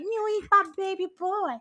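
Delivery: put-on high, gushing baby-talk voice; doting baby talk. Podcaster replying to boyfriend about their dog, high doting coo. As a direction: coo it over a pet. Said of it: "And I'm like".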